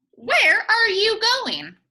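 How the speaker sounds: loud high call out; a big toothy alligator calling Granny. Acted. Alligator calling Granny from the river, loud high hail.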